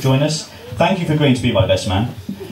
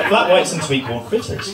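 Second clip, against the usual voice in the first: lightly attempted New Zealand accent, higher, lifting at the end; poor Kiwi accent; 5 semitones higher than usual. Groom repeating the treats for laughing guests, poor Kiwi accent. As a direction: have another amused stab at a bad Kiwi accent. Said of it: "poor accent".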